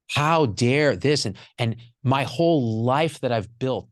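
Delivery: replaying the fury he felt that night; retold rage. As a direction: drag out the indignant How dare this. Retold surge of rage at wife.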